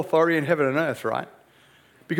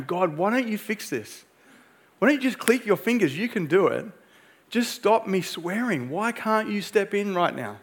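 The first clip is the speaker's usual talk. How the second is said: mock frustrated complaint, pitch climbing; complaining to God; 3 semitones higher than usual. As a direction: replay the pleading complaint to God lightly. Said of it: "just complaining to God".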